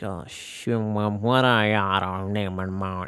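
mock cartoon grumble; angry mumbling. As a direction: mumble crossly like an old cartoon character. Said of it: "like, mumbling".

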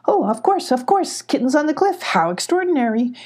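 high fussy goat repeating himself; excited goat. A narrator's reading. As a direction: go up high like a flustered old goat. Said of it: "he repeated".

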